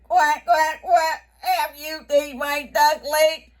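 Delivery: a storybook duck voice, pleading and quacking; Mama Duck. Acted. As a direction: call out like an anxious mother duck. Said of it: "Mommy Duck goes to the beaver".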